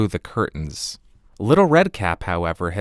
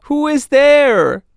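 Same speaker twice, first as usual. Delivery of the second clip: put-on high, slow old grandmother voice; a frail old woman calling from bed; high and slow, like a feeble granny; grandmother's voice; 8 dB louder, slower than usual. Grandmother answers the knock.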